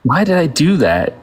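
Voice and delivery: high sitcom catchphrase voice; Steve Urkel. Acted. Repeating a favourite catchphrase for the host, high character voice. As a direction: lift the pitch and play up the catchphrase. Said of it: "I love that catchphrase".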